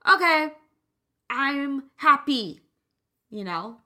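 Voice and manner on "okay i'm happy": mock eager yes. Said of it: "And you're like".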